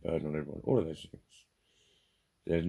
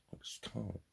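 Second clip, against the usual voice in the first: faint and defeated; 12 dB quieter than usual. Real, not acted. Repeated admission, first take faint.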